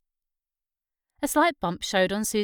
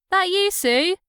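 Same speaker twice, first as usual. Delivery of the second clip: much higher, louder call through a door; old mother's voice; 11 semitones higher, 7 dB louder, slower than usual. Acted. Ma calling through the door to her daughter, high and loud.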